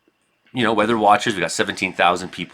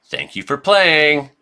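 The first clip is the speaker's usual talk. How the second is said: mock polite sign-off; 5 semitones higher, slower than usual. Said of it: "What do I say to people?".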